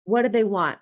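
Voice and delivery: mildly tense, voiced worry; acted alarm. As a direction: wonder anxiously what the boss is after. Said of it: "and you're like".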